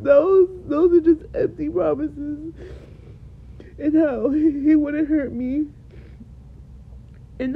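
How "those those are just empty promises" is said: tearful. Real, not acted. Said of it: "I'm literally crying so much".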